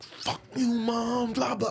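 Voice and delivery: high, breathy mock kid cursing; squeaky kid swearing at mom; mimicking a little kid cussing out his mother.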